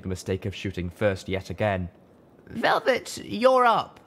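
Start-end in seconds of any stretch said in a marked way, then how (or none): 2.5-4.0 high, loud call; high shouted cue. A narrator's reading. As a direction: send her in, urgently. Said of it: "Letting out the breath".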